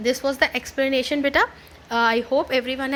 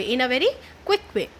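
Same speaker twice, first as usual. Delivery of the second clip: usual speaking voice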